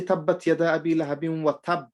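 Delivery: "tab" ended as a single unbounced b; wrong stop on shadda. Shown as a demonstration. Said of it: "We don't say".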